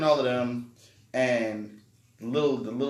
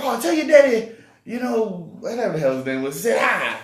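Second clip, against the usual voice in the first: imitating white man; 9 semitones higher, 8 dB louder than usual. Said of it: "So he's like".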